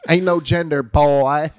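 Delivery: loud, high bro holler; shouted slogan, playful; mock bro shout. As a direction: holler it like a hype man.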